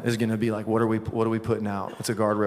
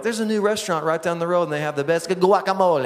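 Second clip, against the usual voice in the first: chirpy-paced higher newscaster lilt with exaggerated Spanish guacamole; 5 semitones higher than usual. Newscaster plugging a new restaurant, mock Spanish flourish on guacamole. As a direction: mimic a newscaster over-pronouncing GUACAMOLE in Spanish. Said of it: "the newscasters when they're talking".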